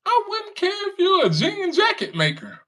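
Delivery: high-pitched incredulous mockery; high mocking squeal. Real, not acted. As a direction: voice jumps way up in disbelief. Mocking retort, laughing.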